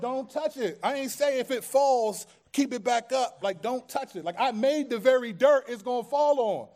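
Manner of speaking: preacher playing a fed-up God, pitched high; indignant rebuke. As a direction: scold them in acted-out disbelief. Acting out God rebuking the people.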